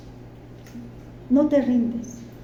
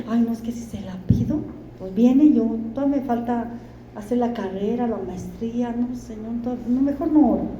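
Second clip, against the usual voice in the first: quick, softer mock excuse, a touch whiny; excuse-making young man; 5 dB quieter than usual. Preacher mimics a young man dodging prayer, quick mock-whiny excuse. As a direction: rattle off lame excuses to dodge prayer.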